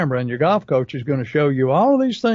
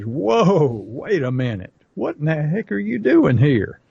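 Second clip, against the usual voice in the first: raised, pushy inner voice scolding you; voice of the subconscious; 3 semitones higher than usual. Retold or imitated. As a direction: play your lazy habit barking orders, higher. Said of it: "your subconscious says".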